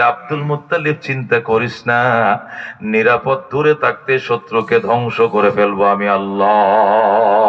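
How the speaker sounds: low, solemn heavenly voice; reassuring voice of God. Acted.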